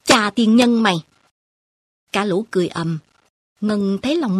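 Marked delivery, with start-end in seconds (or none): 0.0-1.0 sharp, louder scolding curse; old woman cursing, loud and sudden; cursing grandmother. Acted. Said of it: "Bà chửi".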